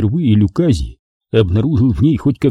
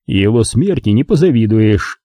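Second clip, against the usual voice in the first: deathly cold voice. Acted. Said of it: "мертвенный, холодный голос".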